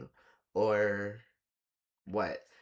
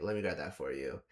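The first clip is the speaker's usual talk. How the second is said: imitating Jason; 6 semitones lower than usual. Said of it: "Jason, was like".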